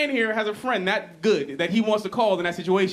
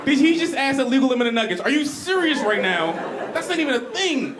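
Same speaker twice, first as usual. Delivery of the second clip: mock angry; 6 semitones higher than usual. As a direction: fume at the nonsense. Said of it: "just, like, angry".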